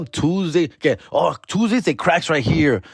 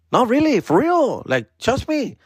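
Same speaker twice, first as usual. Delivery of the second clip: higher, pleading promoter begging to be believed; desperate insisting; 10 semitones higher than usual. Retold or imitated. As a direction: oversell it like a nobody. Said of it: "y'all be like".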